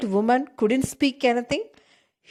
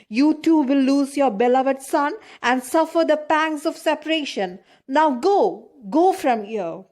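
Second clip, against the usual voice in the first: raised, higher furious cry at the prince; angry shout; 4 semitones higher than usual. Acted. Old man to the prince who killed his son, shouting in a terrible voice. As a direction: hurl the curse at him in grief and rage. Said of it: "shouts in a terrible voice".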